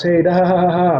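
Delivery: loud, high, put-on audience laugh; demo laugh. Shown as a demonstration. Showing agents how to laugh at jokes, a loud hearty mock laugh. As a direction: laugh along big for the speaker. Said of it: "you want everybody laughs".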